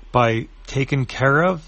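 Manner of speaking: slow, rising disbelief; incredulous echo. Acted. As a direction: repeat it back suspiciously. Aitana echoes Emily's words.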